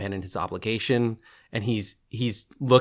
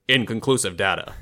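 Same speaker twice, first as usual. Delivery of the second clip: even, robotic computer delivery. Acted. Bat computer reporting its results, robotic. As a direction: say it like a talking computer. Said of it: "would say things in a very robotic".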